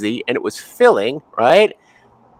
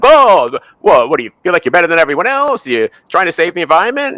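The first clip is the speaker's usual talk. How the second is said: high, fast, indignant jabs; a touch of an incredulous, pitched-up challenge; mocking accuser; 5 semitones higher, 3 dB louder than usual. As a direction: sneer like a defensive meat eater. Meat eaters mocking vegans.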